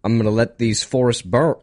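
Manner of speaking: put-on botched Aussie accent, almost Southern; Australian accent slipping Southern. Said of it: "like, a southern".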